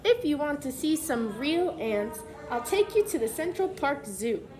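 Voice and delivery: clear, lively picture-book reading voice; reading to children. Acted. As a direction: read the letter aloud to the class.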